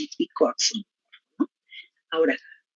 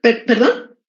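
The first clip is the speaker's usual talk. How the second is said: hollow echo on the call; 4 semitones higher, 5 dB louder than usual. Real, not acted. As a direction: voice echoing in the room. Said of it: "Se oye como eco".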